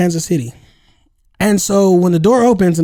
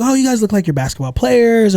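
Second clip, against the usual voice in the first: lightly imitated lady, higher voice; chatty European lady; 5 semitones higher than usual. Lady asking strangers about basketball, lightly imitated chatty voice. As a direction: imitate her curious small talk, pitched up. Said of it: "She's talking to us".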